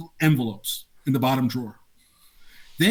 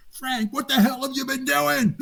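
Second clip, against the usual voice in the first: raised, slow, incredulous colleague; Ira Hardy exclaiming; 10 semitones higher, slower than usual. Retold or imitated. Colleague confronting Frank over the hidden backlog, raised slow incredulity. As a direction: drag out the disbelief. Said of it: "I remember Ira Hardy going".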